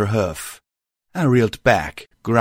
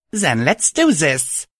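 determined; 7 semitones higher, slower than usual. Acted. Narrator voices herself, brave.

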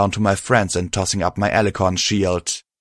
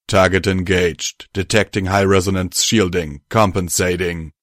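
robot voice. Acted. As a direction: speak like a cold machine. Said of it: "I heard the robot say".

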